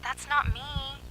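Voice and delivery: high, slow, breathless dread; terrified whisper. A narrator's reading. Zoe whispering to friends about her double, terrified. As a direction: barely get it out, stressing not. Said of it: "Zoe whispered".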